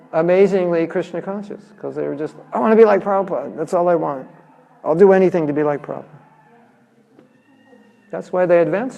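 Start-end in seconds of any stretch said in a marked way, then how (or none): 2.5-6.0 eager devotees. Retold or imitated. Eager young devotees quoted.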